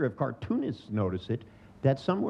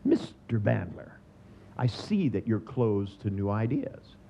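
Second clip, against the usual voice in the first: slow, meaningful pronouncement; lightly voiced smug therapist; knowing psychologist; slower than usual. Psychologist diagnosing Bandler, slow and knowing. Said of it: "leaned forward meaningfully".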